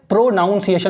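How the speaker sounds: प्रोनाउंसिएशन said as "pro-NOUN-see-ay-shun"; common mispronunciation. Shown as a demonstration. Teacher mimics how people say प्रोनाउंसिएशन, with "pro-noun" at the front. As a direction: put a full "noun" inside प्रोनाउंसिएशन. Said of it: "लोग बोलते हैं ना, प्रो".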